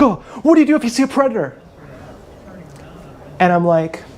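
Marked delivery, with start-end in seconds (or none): 0.0-1.6 high, fast, startled mock voice; high, fast mock of a startled mother; mocking the woman. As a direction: squeak it out like a flustered mom. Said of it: "She's like".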